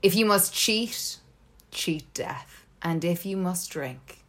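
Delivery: grand theatrical recital, slow and dramatic; hammy stage actor. Shown as a demonstration. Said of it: "I do it in my acting voice".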